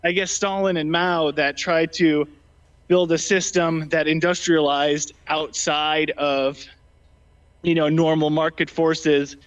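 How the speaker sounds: breathing heavily after climbing a hill; winded, breathy between words. Real, not acted. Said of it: "sorry, I'm breathing a little heavy".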